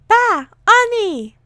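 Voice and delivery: put-on high, loud baby babble. Baby Peter babbling to Tony, high baby voice. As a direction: call out like an excited baby.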